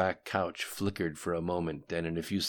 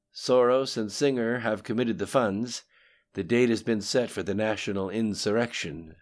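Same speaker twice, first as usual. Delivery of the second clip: lightly voiced conspirator reporting, louder; Lim Shun; 5 semitones higher, 6 dB louder, faster than usual. A narrator's reading. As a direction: report to a superior in a slightly raised voice.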